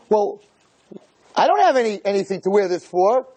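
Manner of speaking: high indignant whine; high whining wife. Retold or imitated. Wife's rising complaint.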